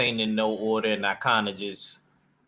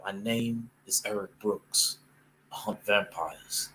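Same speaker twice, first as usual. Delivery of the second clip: put-on UK accent; 6 dB quieter than usual. Fan quoting Blade's intro line, in a soft UK accent. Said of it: "Should we say it in the U K accent?".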